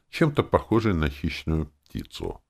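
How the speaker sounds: ordinary delivery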